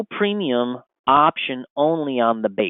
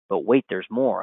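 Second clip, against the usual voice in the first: infomercial voice; 5 semitones lower, 3 dB quieter than usual. Acted. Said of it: "I sound like an infomercial here".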